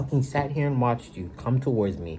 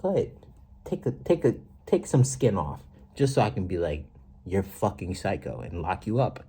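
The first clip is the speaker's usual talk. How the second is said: taunting dare. Retold or imitated. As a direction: goad them to go ahead. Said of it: "That's what we thinking as your person".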